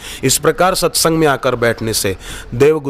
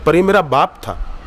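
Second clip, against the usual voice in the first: higher-pitched voice of a pleading son; retold appeal to God, pitched up; Prahlad's plea; 5 semitones higher than usual. Prahlad pleads with Vishnu for his father, higher-pitched entreaty. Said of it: "Prahlad जी भगवान विष्णु को कहते हैं".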